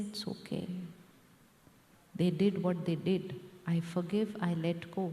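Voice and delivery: soft, hushed release, first words breathed; gentle letting go. Retold or imitated. Teacher to audience, modelling forgiveness in a soft hushed voice. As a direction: let the hurt go softly. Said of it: "And when I say".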